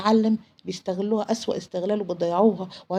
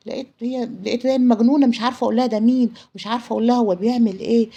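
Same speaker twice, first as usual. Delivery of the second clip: louder, agitated storytelling; frantic recounting; 3 semitones higher, 6 dB louder than usual. Retold or imitated. Friend at a loss how to warn her about him, frantic. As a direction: raise the voice in mild desperation.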